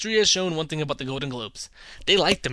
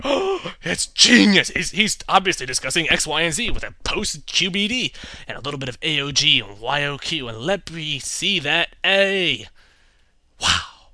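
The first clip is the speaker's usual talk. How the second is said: mock pretentious praise; 5 dB louder than usual. Mocking gushing film fans.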